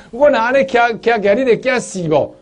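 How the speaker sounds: high, loud teasing in Taiwanese; mother's question in Taiwanese. Retold or imitated. Revived mother asks her family in Taiwanese, high and loud. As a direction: tease them again in Taiwanese. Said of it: "台湾话说".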